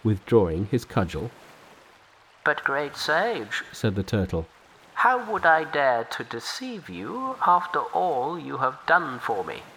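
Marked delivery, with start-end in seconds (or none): 2.4-3.6 humble river turtle offering help. Acted. Turtle protests. 4.9-9.6 humble river turtle offering help. Acted. Turtle protests.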